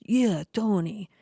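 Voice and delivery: slow, drawn-out mocking echo; mock-obvious slow reply; mocking retort. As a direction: imitate him making fun, stretching the name. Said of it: "Kinda making fun of me".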